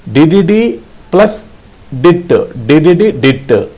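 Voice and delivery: did plus dit chanted as quick beeps; rhythmic did dit. Shown as a demonstration. Morse teacher drilling the letter H. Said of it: "H, hotel".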